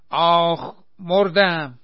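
loud high cry; yelp of pain. A narrator's reading. Shemr kicked from behind, loud high hammed-up shriek. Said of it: "جیغ کشید".

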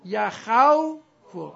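یخوفو loud and very slow, ya-KHAW-fu; sounded-out answer. Shown as a demonstration. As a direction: stretch the aw in یخوفو. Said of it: "بگید یخوفه شد چی؟".

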